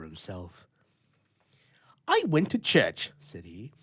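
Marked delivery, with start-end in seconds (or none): 2.1-3.1 louder, gloomy complaining bachelor; a lonely grouch airing his gripes; grumpy old bachelor. A narrator's reading. Bluff tells his adventure.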